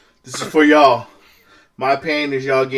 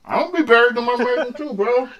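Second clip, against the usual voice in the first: laughing; 12 semitones higher than usual. Real, not acted. Laughing at a friend's joke.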